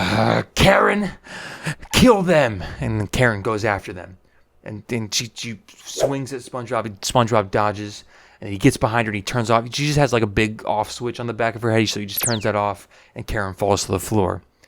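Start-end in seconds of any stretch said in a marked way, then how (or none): 0.0-2.6 furious, very high-pitched and loud. Retelling a story scene where the villain orders an attack: acting furious. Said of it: "he's furious, and he goes".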